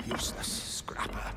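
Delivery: muttered under the breath; whispered insult. Acted. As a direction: spit it out in a whisper.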